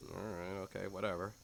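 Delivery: low, muttered, sulky; a touch of sulky sarcasm; grumbling resignation. Acted. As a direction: grumble your way into agreeing. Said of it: "is like".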